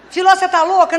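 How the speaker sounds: loud, high, indignant burst; shocked outcry. Retold or imitated. Parents shocked at the therapist's advice, retold shocked outcry.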